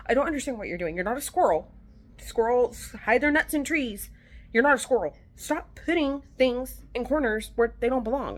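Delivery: exasperated scolding. Retold or imitated. Mother telling her daughter she's not a squirrel, exasperated scolding.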